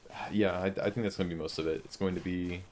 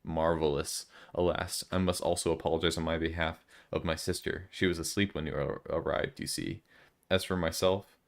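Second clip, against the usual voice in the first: grand, growing louder formal letter read; 4 dB louder than usual. Acted. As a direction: read the letter like a pompous gentleman, rising in volume. Reads a formal letter aloud.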